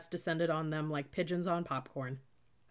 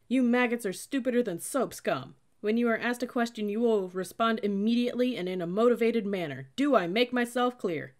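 loud, high military berating; barked scolding; 5 semitones higher, 7 dB louder than usual. A narrator's reading. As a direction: chew out the recruits at volume. Cadet berating the recruits.

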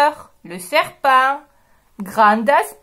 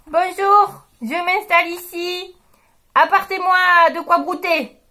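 a cheeky mule, higher voice; bossy mule; 5 semitones higher than usual. Acted. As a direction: play the mule giving orders. La mule parle, voix de personnage. (une mule qui commande, voix plus aiguë)

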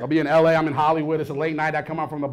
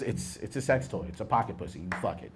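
hushed aside; 9 semitones lower, 13 dB quieter than usual. Acted. Explaining a sex toy.

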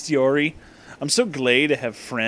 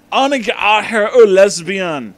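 mock yell; 3 semitones higher, 6 dB louder than usual. Character yelling at Annie.

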